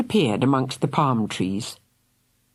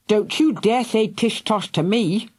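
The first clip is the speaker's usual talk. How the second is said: snarling; 7 semitones higher than usual. A narrator's reading. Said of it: "snarled Fergal".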